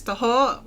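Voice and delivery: taho as tuh-HO with a short stopped ending; correct pronunciation. Shown as a demonstration. Co-host teaching Filipino foods, taho pronounced correctly as tuh-HO. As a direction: say taho with a light first vowel, tuh-ho. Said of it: "It's not taho".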